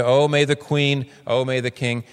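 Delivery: bow your voice before royalty; deferential address. Shown as a demonstration. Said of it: "You deferentially say".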